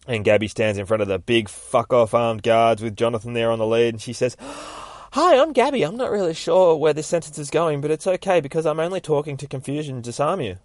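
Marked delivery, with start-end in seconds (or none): 4.4-10.6 put-on high girlish run-on greeting; high, chatty, speeding up as it rambles; bubbly distraction chatter. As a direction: babble brightly in a high voice to confuse guards. Gabby stalls guards with chatter.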